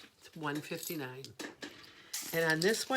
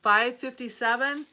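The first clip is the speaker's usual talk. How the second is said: surprised call; 7 semitones higher, 10 dB louder than usual. Real, not acted. Answering a voice from the vent.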